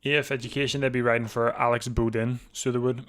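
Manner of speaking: talking while eating; words round a bite of food; mouth full. Real, not acted. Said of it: "Got some food".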